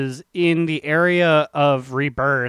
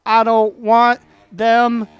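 hyped build-up; 5 semitones higher, 4 dB louder than usual. Acted. Hyping the sexiest NPC.

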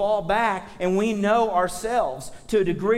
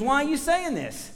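higher, tough street challenge; gangster challenge; 6 semitones higher than usual. Retold or imitated. Preacher voicing Isaiah calling out Israel, gangster-style challenge. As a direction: call them out like a gangster. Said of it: "That's kinda gangster".

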